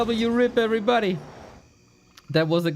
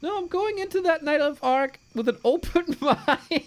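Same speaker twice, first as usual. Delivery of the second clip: laughing through the words; can't hold back a laugh; 9 semitones higher than usual. Real, not acted. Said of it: "Can't keep a straight face".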